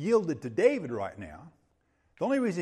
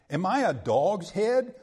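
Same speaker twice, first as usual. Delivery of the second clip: a touch of Abner's wrath, louder; mildly wrathful quote; 6 dB louder than usual. Retold or imitated. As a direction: read it with offended force. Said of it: "Then was Abner very wroth".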